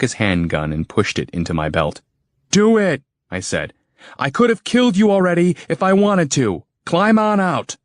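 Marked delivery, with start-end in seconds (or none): 2.5-3.0 high, slow order at gunpoint; firm command. Acted. Hero orders the tank gunner out, firm and slow. 4.2-7.8 firm command. Acted. Hero threatens the gunner.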